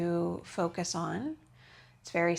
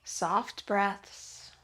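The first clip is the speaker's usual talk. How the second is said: restorative yoga guidance. Real, not acted. Yoga teacher easing students into the pose, calm guidance. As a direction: guide them into rest, unhurried.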